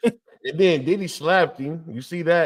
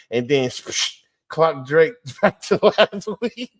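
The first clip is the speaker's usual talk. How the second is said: punch sound effect. Retold or imitated. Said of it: "with the sound effect".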